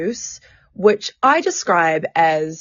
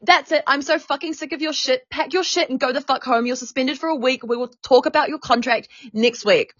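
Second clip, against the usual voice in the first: higher-pitched imitation of a fed-up boss; retold angry dismissal; 5 semitones higher than usual. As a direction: act out a manager sending someone home. Retold manager suspends her.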